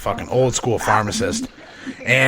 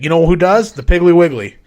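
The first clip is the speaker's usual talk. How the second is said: sly tip; 4 semitones higher, 6 dB louder than usual. Retold or imitated. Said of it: "he's like".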